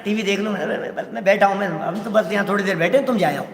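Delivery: mock him with a chuckling sweet voice; sweet-talking guest. Preacher mimics guest who stays home, sweetly laughing. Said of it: "प्यार से बोल रहा है ना".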